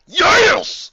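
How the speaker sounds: high, loud squeal; eager yes. Acted. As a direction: squeal with delight. Eager shout.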